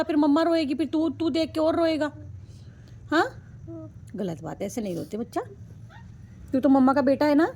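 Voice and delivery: singsong coaxing, pitch swooping up and down. Real, not acted. Mother comforting her sick crying son, coaxing singsong. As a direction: coax him to stop crying like a loving mum.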